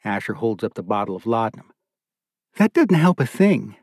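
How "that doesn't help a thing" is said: sharp rebuke, pitched higher and a little louder; sharp scolding wife. A narrator's reading. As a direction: cut him off sharply, a wife's reproach. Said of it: "Beulah says sharply".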